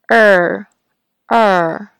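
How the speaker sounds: er with the back of the tongue arched; bunched R. Shown as a demonstration. Teacher demos the bunched-tongue er sound. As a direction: hold er, tongue body bunched up. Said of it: "是这样的".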